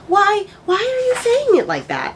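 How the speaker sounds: high-pitched exasperated plea. Retold or imitated. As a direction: whine it out in mock despair at the wording. Exasperated reaction to odd dialect.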